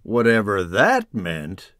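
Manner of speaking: lively rhyming storybook reading; reading to children. A narrator's reading. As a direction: read it like a bedtime picture book. Narration continues.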